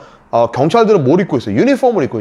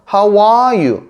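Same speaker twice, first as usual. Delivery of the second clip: "How are you?" slow, with a high, long ARE; stress on ARE; 5 semitones higher, 3 dB louder, much slower than usual. Shown as a demonstration. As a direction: lean hard on "are", then fall on "you". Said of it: "아의 강세가 있어요". ("are"에 강세를 둔 느린 발음)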